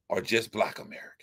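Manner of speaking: hushed whispered close. Real, not acted. Telling the chat who he cares about, in a whisper. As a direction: say it under your breath. Closing point dropped low.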